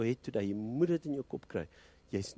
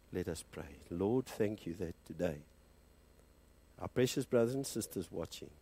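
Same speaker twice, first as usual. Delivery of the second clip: closing prayer. Acted. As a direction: lead the congregation gently into prayer.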